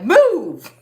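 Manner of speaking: loud, high yell of command; mock bossy shout. Woman voicing the dog to the teenagers, bossy shout.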